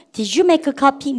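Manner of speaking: very slow, every word spelled out; slow model sentence. Shown as a demonstration. Teacher models for repeating class, very slow. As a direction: drag it out for students to follow. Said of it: "다시 해보세요".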